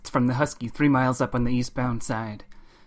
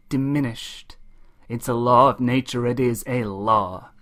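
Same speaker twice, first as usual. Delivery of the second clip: trucker orator turning rueful; 3 semitones higher than usual. Acted. Ryder P. Moses telling folks they come back empty, rueful. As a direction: start as a roll call, sink into a lament.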